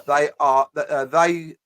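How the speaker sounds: halting, stuck on "they"; mock stutter. Reading out a woman's post, stumbling mock stutter on "they". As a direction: repeat "they" as if stuck on the word. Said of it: "she's fucking got a stutter now".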